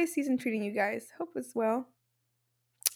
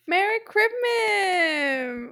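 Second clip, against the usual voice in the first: fake crying; 5 semitones higher, much slower than usual. Over-the-top Christmas Eve emotion.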